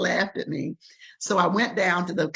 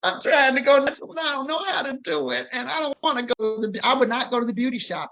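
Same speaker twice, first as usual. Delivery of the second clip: retold crying; 9 semitones higher, faster than usual. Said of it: "I was crying".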